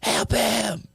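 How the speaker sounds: high, frantic calls for help; panicked plea. Acted. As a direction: beg someone to save him. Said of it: "they go".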